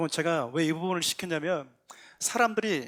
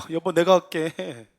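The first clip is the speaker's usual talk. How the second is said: drawn-out, raised-voice call; loud calling out; 7 dB louder, slower than usual. Acted. Husband promises his wife aloud, slow loud call. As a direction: stretch the call out loudly and slowly. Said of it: "막 큰 소리 막 치지 않습니까".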